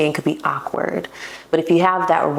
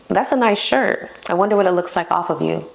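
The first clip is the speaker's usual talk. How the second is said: flirty compliment. Shown as a demonstration. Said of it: "you could say".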